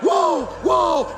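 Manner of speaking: high, loud mock outcry of indignant kids; imitated clamour of startled boys; sons protesting. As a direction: cry out in disbelief like a kid left out. Acts sons protesting the money.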